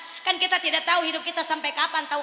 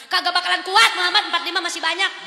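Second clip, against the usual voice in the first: a little raised, higher insistence; insistent Moses; 4 semitones higher, 5 dB louder than usual. Acted. Moses insisting to Muhammad, a bit raised. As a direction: press the point again. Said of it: "Moses again".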